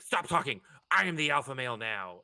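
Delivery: put-on nerdy kid voice. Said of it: "nerdy lisp".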